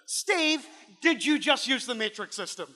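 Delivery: mock outrage at an American using grams; retold disbelief. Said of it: "And I was like".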